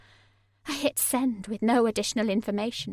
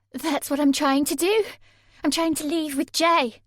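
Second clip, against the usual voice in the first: higher, louder, defensive; protest, voice pitched up; Sammy upset; 6 semitones higher, 5 dB louder than usual. A narrator's reading. Sammy arguing with Mark, higher and louder.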